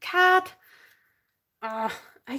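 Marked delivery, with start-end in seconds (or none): 0.1-0.4 exasperated outburst. Real, not acted. Jar won't open, exasperated.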